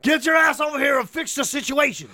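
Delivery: high, hammed-up whiny demand; mock spoilt boss. Retelling the boss ordering his assistant around, mock whine. Retold boss's demands, mocked.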